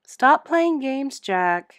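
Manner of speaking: loud, slow call to an unseen ghost; calling out sharply. Acted. Charlene calls out to ghost.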